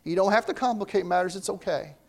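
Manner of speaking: soft, reassuring, unhurried; Jesus calming worried Martha, reassuring. Retold or imitated. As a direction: talk sense into her kindly. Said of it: "he just kinda talks some sense to her".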